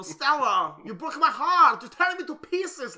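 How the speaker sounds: loud, high melodramatic wail, rising; overwrought Tennessee Williams. Retold or imitated. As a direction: ham it up like Brando screaming Stella. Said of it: "It's supposed to be Tennessee Williams".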